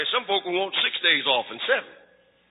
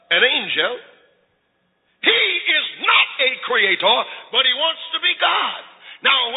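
preaching fervently; 2 semitones higher than usual. Acted. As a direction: drive the truth home to the church. Preaching at full force.

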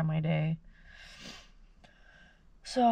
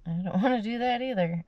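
laughing; 4 semitones higher, 3 dB louder than usual. Real, not acted. Laughing at herself.

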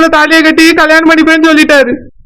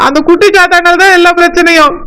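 crying; 3 semitones higher than usual. Acted. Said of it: "நான் தான் அழுதுட்டு இருக்கேன்".

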